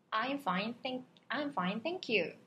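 tune shown on "I'm fine, thank you"; intonation demo. Shown as a demonstration. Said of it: "억양은 인토네이션이라고 해가지고".

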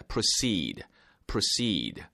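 "proceed" stressed on the second syllable, "pro-SEED"; light "pro", weight on "ceed" in "proceed". Shown as a demonstration. Teacher showing learners the stress, "proceed" as pro-SEED. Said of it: "강세가 있습니다".

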